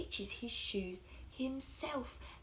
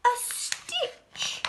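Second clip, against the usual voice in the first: laughing. Acted. Laughs at sudden riches.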